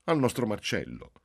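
high, slow, sugary mother's voice; drawn-out adoring praise; doting mother. Acted. (madre adorante che loda Marcello, lenta e acuta)

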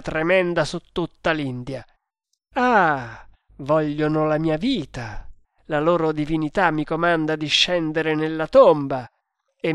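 indignant challenge, rising in force; proud, emphatic storybook hero; defiant hero. Acted. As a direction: throw down a challenge to your enemies.

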